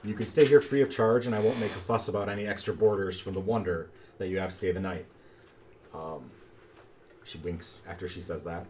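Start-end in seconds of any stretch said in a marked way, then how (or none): 0.0-5.0 man doing a woman's voice; lightly voiced sweet granny; creaky warbling old lady. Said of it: "warbling little lady voice".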